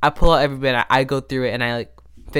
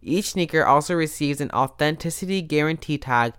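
upbeat sponsor read; a podcast host reading an ad. Acted. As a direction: sell it like a sponsor spot.

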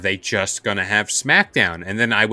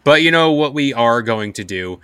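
podcast outro; 2 semitones higher, faster than usual. Acted. Host signing off the Get Comfy podcast, upbeat announcer read. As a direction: wrap up the show like a host.

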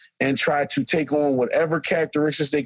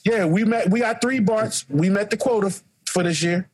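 lifted, smug, teasing; mock gatekeeper voice; 6 semitones higher than usual. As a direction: parody the quota keepers, a touch higher. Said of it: "mocking the art world quota".

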